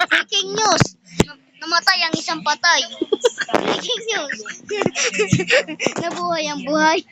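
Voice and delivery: hammed-up TV anchor reading silly headlines; news anchor. Repeated mock breaking news. (parang anchor ng balita, mataas ang boses)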